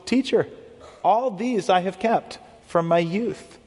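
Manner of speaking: a touch of hope, slowed; earnest, hoping for approval; hopeful. Retold or imitated. Young man answering Jesus with a touch of hope. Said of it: "hear a little bit of the hopefulness in the man's voice".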